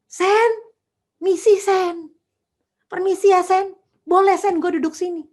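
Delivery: humble friend asking. Retold or imitated. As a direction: play the deferential rich friend begging a seat. Rich friends humbly ask to sit.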